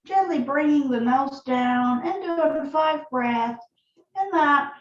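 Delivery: calm, unhurried yoga instruction with long pauses; guided yoga practice. Acted. Yoga teacher leading students through breath and neck stretches, calm guiding voice.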